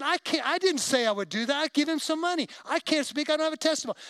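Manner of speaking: high, agitated retold objection; mad protest. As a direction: protest as if wrongly signed up. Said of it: "I just got mad".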